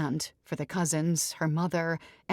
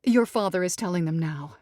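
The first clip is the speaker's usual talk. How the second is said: reassuring mother; 4 dB louder than usual. Acted. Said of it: "Missus Evers reassured her".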